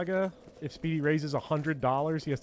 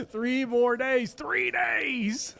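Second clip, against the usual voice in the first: tired; 9 semitones higher, much slower than usual. Real, not acted. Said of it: "I'm so sweaty and tired".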